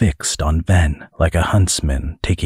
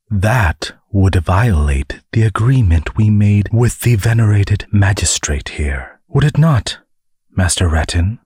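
stern but polite; 4 semitones higher than usual. Acted. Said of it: "She spoke sternly, but politely".

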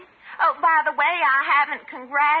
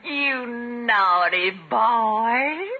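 coy tease; 2 semitones lower, much slower than usual. Acted. Coy teasing scold.

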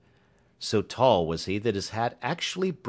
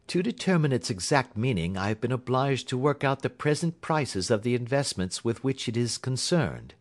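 higher, precise detective voice; Holmes reporting; 4 semitones higher than usual. Acted. Holmes reports to Watson on the will, precise. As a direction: announce the finding crisply, pitched up.

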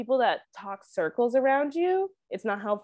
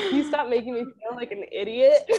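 laughing, exasperated plea; frustrated plea; 3 semitones higher than usual. Retold or imitated. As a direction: plead in mock frustration, breaking into laughs. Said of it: "this is where I get, like, frustrated".

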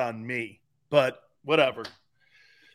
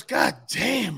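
mock shocked exclamation; 4 semitones higher than usual. Roommate's shocked reaction, retold.

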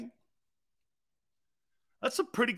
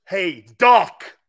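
pass rusher taunt; 9 dB louder than usual. Retold or imitated. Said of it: "look out for these words".

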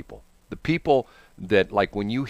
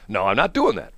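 lower, lightly acted refusal; reluctant radio hire; 5 semitones lower than usual. New hire refuses boss's gimmick, low and firm. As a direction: dig in against the boss, pitched down. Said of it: "he went to this station".

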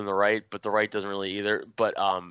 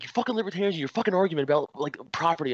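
mock angry rant; 7 semitones higher, faster than usual. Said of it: "his anger went from zero to a hundred".

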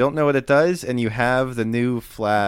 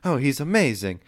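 higher-pitched, excited admiration; admiring exclamation; 4 semitones higher than usual. Acted. Sailors admiring the boy in the rigging, excited. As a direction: gush like an impressed sailor. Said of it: "all sorts of exclamations".

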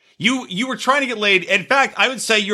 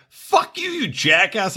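mock angry Carl; slower than usual. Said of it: "fucking Carl was like".

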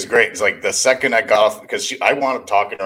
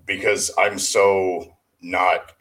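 talking in a reverberant echoey room; much slower than usual. Real, not acted. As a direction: voice with room echo. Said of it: "forgive the echo. I'm in a echoey room".

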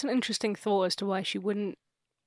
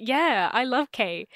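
slow, higher, louder pretend child; gushing kid; 4 semitones higher, 5 dB louder, slower than usual. Kid backs mum about the ghost, hammed-up gushing. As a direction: draw it out loudly like a devoted kid. Kid sides with mother, acted.

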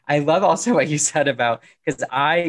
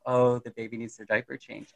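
quiet inner voice; 6 dB quieter than usual. Retold or imitated. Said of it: "in my head, I go".

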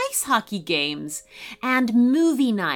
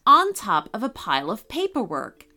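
cheerful elf; 3 semitones higher than usual. Acted. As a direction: chirp it up like a happy little elf. Bryant the elf speaking.

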